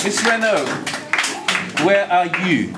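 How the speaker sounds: put-on loud call in a French accent; hint of French, projected across the hall; playful French accent. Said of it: "Do you like my French accent".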